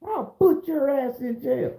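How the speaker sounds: slow, high-pitched mock threat; acted threat. Judge threatening him with jail, acted anger.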